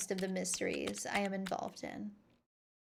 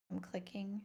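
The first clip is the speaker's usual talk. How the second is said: breathy whisper, no voice; 10 dB quieter than usual. Real, not acted. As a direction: whisper it to yourself. Repeats same words, then whispered.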